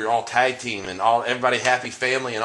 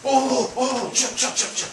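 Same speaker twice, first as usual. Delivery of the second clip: calling out; 3 dB louder than usual. Real, not acted. Calling after leaving wrestler.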